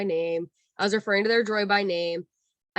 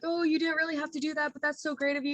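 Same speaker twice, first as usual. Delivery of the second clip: high, gently gushing gratitude; effusive thanks; 6 semitones higher, 3 dB quieter than usual. Retold or imitated. Crying guests thanking a cast member, retold in high gush. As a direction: lightly imitate touched, grateful guests.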